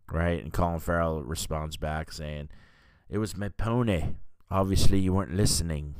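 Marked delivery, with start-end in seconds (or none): 3.1-5.9 bad Irish accent, a bit quick; half-hearted Irish accent impression; terrible Irish accent. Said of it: "That's a terrible Irish accent".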